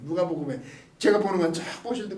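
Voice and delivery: ordinary talk, nothing marked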